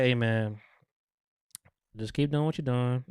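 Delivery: understated calm menace, voice kept down. Retold or imitated. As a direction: speak unhurried and untroubled, imitating quiet control. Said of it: "Frank is just so calm with the gun".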